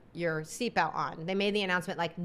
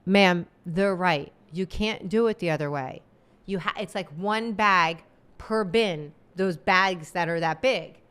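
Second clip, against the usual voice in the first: firm flight attendant; 4 dB louder than usual. Retold or imitated. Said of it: "jumps in and goes".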